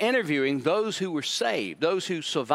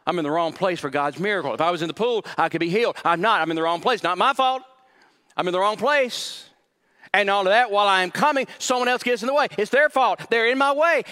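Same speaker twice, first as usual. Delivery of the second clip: higher and louder, blaming everyone; defensive whine; 4 semitones higher, 4 dB louder than usual. Acted. Pastor acting the man insisting it's not his fault, loud whine. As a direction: build to an indignant protest. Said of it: "he is so defensive".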